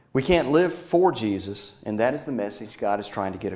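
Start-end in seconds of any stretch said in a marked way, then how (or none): 0.1-1.8 slow down and lean hard on "for"; stress on for. Real, not acted. Preacher contrasting living for Jesus with in, stress on "for".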